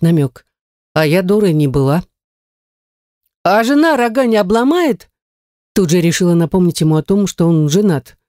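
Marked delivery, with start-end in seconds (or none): 3.4-5.1 higher, teasing reminder; lightly voiced cheeky witch. A narrator's reading. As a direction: jab him about his wife. Heroine reminds of wife.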